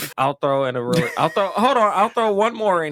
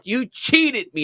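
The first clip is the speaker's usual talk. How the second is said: put-on higher, slow child's complaint; whining kid; 9 semitones higher, slower than usual. Niece complaining to her uncle, slow mock whine. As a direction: drag it out like a sulking kid. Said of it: "She's like".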